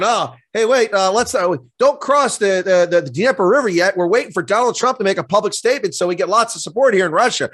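a lightly voiced Putin plotting; mild mock Kremlin boss waiting on a cue. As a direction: play a hint of scheming Putin, fussing over timing. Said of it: "Putin's in the Kremlin going".

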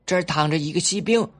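put-on high, loud, quick little boy; bubbling over with a new game; excited child. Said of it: "一个孩子说".

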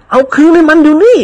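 put-on high, sharp command from an old lady; stern order. Aunt orders nephew to return ticket, sharp stern command. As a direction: order it handed back at once. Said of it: "ทำตาเขียว".

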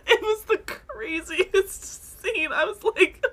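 high, loud, laughing disbelief; excited disbelief. Real, not acted. Friend recalling the fight, loud laughing disbelief. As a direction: gush about the craziest scene. Reacting to the craziest scene.

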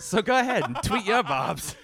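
high, loud invitation; loud cheeky call. Acted. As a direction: shout it playfully. Hammed-up request.

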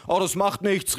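high-pitched breezy mother; mother calling out. A narrator's reading. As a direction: brush it off in a high voice. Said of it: "rief meine Mutter".

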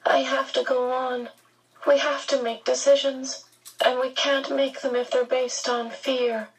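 strange, distant, lightly aged voice; old and remote. Acted. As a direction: speak as if from far away. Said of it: "His voice sounded old and strange and remote".

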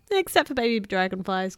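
lightly giggled line; a teasing giggle through the words; giggling. Acted. Tiny teasing Bill about the dragonflies, light giggle. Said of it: "giggled Tiny".

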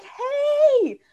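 high, loud excited hey; a bright shouted hello from a friend; excited greeting. Retold or imitated. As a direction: call out hey with pure delight. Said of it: "Like, so excited, so enthusiastic".

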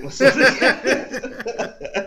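slow words through laughter; fighting off the giggles; laughing. Real, not acted. Still laughing, trying to recover.

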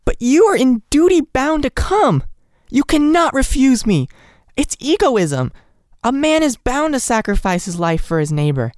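indignant threat. A narrator's reading. Nellie threatening the doctor with the court, high and indignant. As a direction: shame him into coming.

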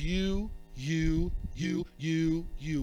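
low, insistent pointed you; accusing you. Acted. Preacher mimicking the devil's accusing you. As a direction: jab each you like an accuser.

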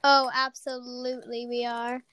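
chewing while talking; words round a bite of crackers; mouth full. Real, not acted. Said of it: "Sorry, I'm eating goldfish".

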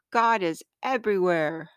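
lightly voiced joy of a little girl; joyful little girl. Recalling her younger self with arms spread, mildly joyful. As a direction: proclaim it with a touch of childlike joy. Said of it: "spread her arms out with joy and say".

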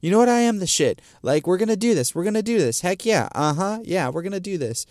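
high-pitched, pumped-up self-hype; hyped up. Retold or imitated. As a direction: psych yourself up for the fight. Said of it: "hype yourself up".

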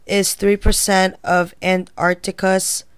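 stiff robot voice. Real, not acted. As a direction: read it like a robot. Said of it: "You sound like a robot".

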